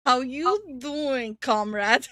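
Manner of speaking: slow mock-Russian accented greeting; playful Russian accent. Streamer answers request to say it in Russian, mock Russian accent. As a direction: put on a drawn-out Russian accent. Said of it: "Now say that in Russian".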